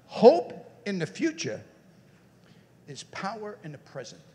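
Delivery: "Hope in the future" said slow for writing down; slow dictation pace for the audience. Shown as a demonstration. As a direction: dictate it slowly, word by word. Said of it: "Write it down".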